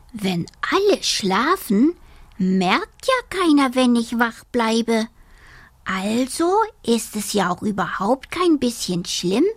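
high, relieved small voice; a small creature cheering himself up; little dormouse. Acted. Dormouse reasons to himself, relieved and high.

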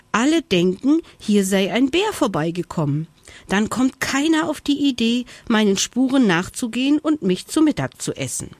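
high, effortful hare voice; strained panting. A narrator's reading. Hare explains his trick against being eaten, strained panting. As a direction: speak high, as if working hard. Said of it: "keuchte der Hase angestrengt".

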